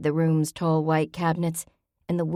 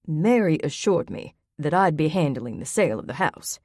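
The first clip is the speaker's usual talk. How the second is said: tight voice. Acted. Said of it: "voice tight".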